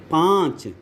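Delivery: पाँच with a long vowel through mouth and nose; anunasik pronunciation. Shown as a demonstration. Teacher giving an anunasik example, nasalised vowel in पाँच. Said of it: "मुख और नाक दोनों से निकलते हैं".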